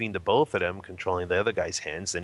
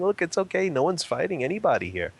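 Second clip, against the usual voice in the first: higher-pitched smiling reassurance; 7 semitones higher than usual. Retold or imitated. Bystander calming a drunken man in a fight, smiling reassurance. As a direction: reassure with a smile, voice lifted. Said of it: "very lightly and smiling and".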